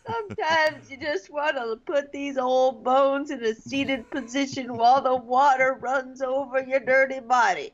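mock old man; lightly voiced old man. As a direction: muse like a creaky old-timer.

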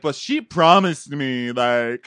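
high, gasping imitation of a wronged woman; hammed-up indignant whine; mock tearful protest. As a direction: protest it high, catching your breath. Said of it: "she's still sobbing".

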